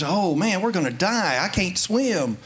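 half-hearted retold panic; mild mock panic. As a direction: imitate people freaking out, lightly. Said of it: "they're all freaking out".

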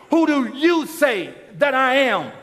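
called out to the whole congregation; booming question to everyone; preached to the crowd. Shown as a demonstration. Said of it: "Just like I'm speaking to you".

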